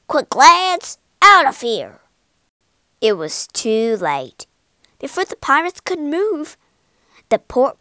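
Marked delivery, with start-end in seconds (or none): 0.1-2.0 urgent shout. Acted. Captain urges crew flee.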